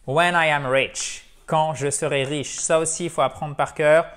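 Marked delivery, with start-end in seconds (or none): 0.1-1.3 When I am rich, slow and a bit louder; slow model sentence. Shown as a demonstration. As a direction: lay out When I am rich slowly for learners. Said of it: "pleuvoir à l'intérieur". (phrase modèle lente et appuyée)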